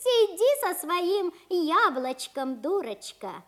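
mocking. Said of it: "над Машенькой посмеиваются".

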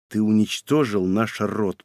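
low, soft and slow; crushed. A narrator's reading. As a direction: say it defeated, all hope gone. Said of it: "произнёс Аурелио убито".

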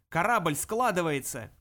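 slow, loud alarmed yell; panicked shout. Acted. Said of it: "орал он".

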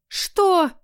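high shrieking what. A narrator's reading. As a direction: screech it in outrage. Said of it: "Я опять сорвалась на визг".

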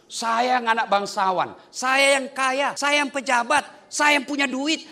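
boasting ego. Retold or imitated. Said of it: "Tapi kalau ego masuk".

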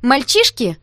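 high, loud frightened call; alarmed cry. A narrator's reading. Girl stopping a fight, alarmed high call. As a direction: cry out in panic. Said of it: "всполошилась Таня".

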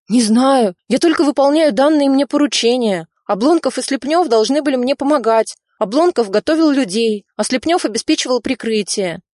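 frightened official. Acted. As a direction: blurt names out in fear. Narrator voices frightened Bespalov.

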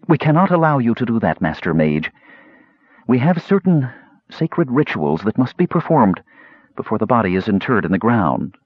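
a lightly voiced woman holding firm; Shabbos, tense. Shabbos pleads.

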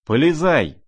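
a loud, high frantic roar. Acted. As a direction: bellow at him in a frenzy. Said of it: "заревел Фердыщенко".

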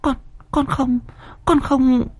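a slapped maid begging her mistress; terrified denial. A narrator's reading. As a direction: stammer the denial through tears. Slapped maid denies, weeping.

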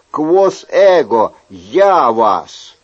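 a hint of a commanding god; lightly voiced stern decree; Neptune's command. Neptune calming the winds, a mild commanding tone. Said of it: "как если бы Нептун собственной персоной".

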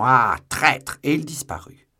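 loud cry of accusation; loud, angry exclamation; outraged shout. A narrator's reading. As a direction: hurl the insult at a fleeing enemy. Shouted insult while giving chase.

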